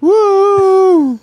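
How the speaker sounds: high shrill mock whoop; shrieking jackpot winner. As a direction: squeal it like a jackpot win. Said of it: "really lame woo noises".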